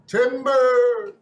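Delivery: loud, high call of timber; gleeful loud warning cry; shouting timber. Pretend. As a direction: yell it like a lumberjack as the tower falls. Tower collapsing, calling out.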